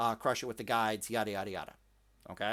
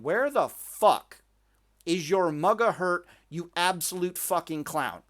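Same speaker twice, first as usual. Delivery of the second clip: slow, emphatic, pitched-up indignation; exasperated outrage; 3 semitones higher, 3 dB louder, slower than usual. Retold or imitated. Player yelling at the duel he was watching, exasperated outrage. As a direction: reenact being pissed off, drawing out the words. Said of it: "That duel pissed me off".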